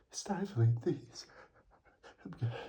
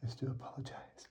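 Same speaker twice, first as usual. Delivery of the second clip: whispering; 2 semitones lower, 9 dB quieter, faster than usual. Real, not acted. Whispered apology.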